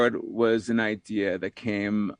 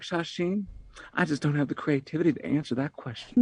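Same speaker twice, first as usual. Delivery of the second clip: put-on Texas accent. Guest retelling a Dallas woman's answer to host, in a mild Texas accent. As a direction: retell her words with a touch of a Texas accent. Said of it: "you're not doing that with the Texas accent".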